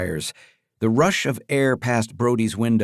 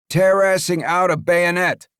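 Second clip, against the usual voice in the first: gruff henchman voice; 8 semitones higher, 4 dB louder than usual. Acted. Leo on phone chasing.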